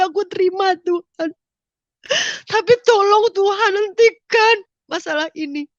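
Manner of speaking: high, loud, sobbing plea, slowing at the end; crying prayer. Retold or imitated. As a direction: beg God through tears to stop it. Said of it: "Saudara, saya menangis".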